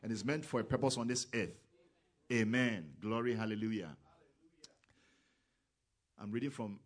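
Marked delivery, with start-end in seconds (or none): 0.0-4.0 loud preacher's call; full-voiced hallelujah; shouted amen. Real, not acted. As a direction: belt out each amen to the congregation. Shouted amens in sermon.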